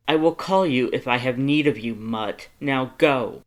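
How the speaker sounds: a grand noble ordering his lackeys off; haughty lord dismissing servants. Acted. Lord banishing his two servants from his date, commanding and loud.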